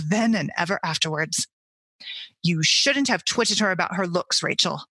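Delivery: steady storyteller read of the chapter; story reading. A narrator's reading. Reads the book chapter aloud.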